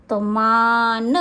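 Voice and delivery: मान said slowly with a long आ; drawn out syllables. Shown as a demonstration. Teacher to pupils: slow, long vowel in मान. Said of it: "इन तीनों के उच्चारण पर ध्यान देंगे।".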